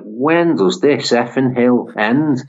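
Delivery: put-on weary Sunderland accent, drawn out slowly; slow, fed-up Geordie-style moan. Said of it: "Sunderland accent".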